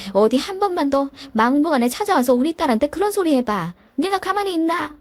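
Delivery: seething mother, rising at the end; half-hearted threat from an angry mom; mild mock fuming mother. Mother fuming about the mother-in-law, a mild mock threat. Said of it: "엄마는 부글부글 하셨죠".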